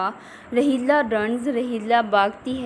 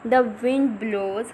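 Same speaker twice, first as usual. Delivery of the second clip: slow reading aloud; much slower than usual. Shown as a demonstration. Teacher reads text slowly.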